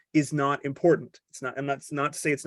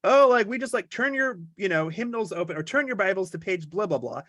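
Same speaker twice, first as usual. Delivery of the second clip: mock flustered; 4 semitones higher than usual. Visitor at a synagogue service, hammed-up flustered awe. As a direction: play the lost visitor fumbling through the service. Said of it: "You're like".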